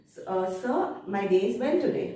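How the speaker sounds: restrained, polite answer to an examiner. Acted. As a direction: answer with understated courtesy. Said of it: "with the similar kind of politeness".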